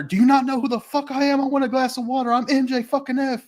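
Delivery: mock MJF rant. MJF yelling at workers who won't bring water, mock outrage. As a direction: demand water like an outraged star. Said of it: "he's over there yelling".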